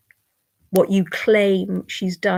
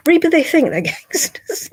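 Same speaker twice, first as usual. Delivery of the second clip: higher, laughing through the words; laughing scorn; 8 semitones higher, 3 dB louder than usual. Real, not acted. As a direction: laugh them off while mocking. Mocking trolls.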